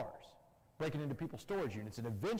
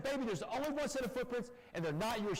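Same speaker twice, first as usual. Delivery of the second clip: coach-like yelling; 9 semitones higher than usual. Retold or imitated. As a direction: bark orders like a football coach. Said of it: "She started screaming like a football coach".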